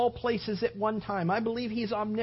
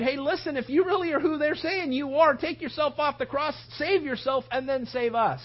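taunting thief; 4 semitones higher than usual. Acted. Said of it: "Even the thieves got into it".

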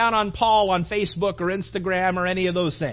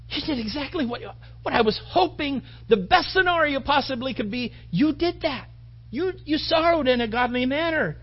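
higher-pitched acted approval; elated praise; 4 semitones higher than usual. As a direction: commend them eagerly, voice lifted. Voices Paul praising the church's response.

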